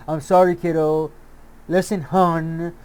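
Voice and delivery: mock condescending. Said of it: "Your tone of voice, your condescending nature".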